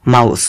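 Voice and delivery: মাউস said as "maus", ow diphthong, final e silent; teacher modelling a word. Shown as a demonstration. Teacher to students modelling the word, careful and clear. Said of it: "তাহলে উচ্চারণটা হবে মাউস".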